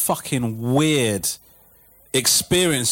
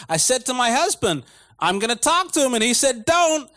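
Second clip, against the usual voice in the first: put-on American accent; 9 semitones higher than usual. Wife quoting her husband.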